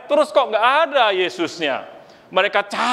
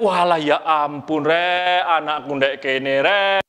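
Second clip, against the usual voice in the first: Javanese exclamation; slower than usual. Acted. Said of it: "gitu kan".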